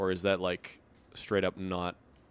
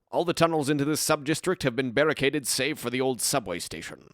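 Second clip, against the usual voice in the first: a touch louder, lightly voiced order-giver; canon character voice; 2 semitones higher, 5 dB louder than usual. Watchman's orders read aloud to a rifleman, light character voice. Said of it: "that's the canon voice".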